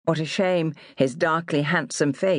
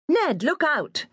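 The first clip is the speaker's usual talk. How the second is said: mock warning call, higher, slow; 11 semitones higher, slower than usual. A narrator's reading. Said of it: "she called".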